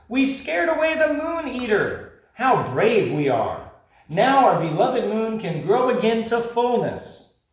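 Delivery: high, loud proud cheering; proud creatures. Acted. Creatures celebrating their brave victory, high and loud. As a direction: boast happily.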